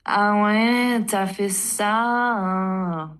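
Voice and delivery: drawn-out, superior Parisian French; mock Parisian snob, stretching the last words slowly; snooty Parisian accent. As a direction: mimic a judgy Parisian drawling the end of the line. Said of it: "like if they're superior or something".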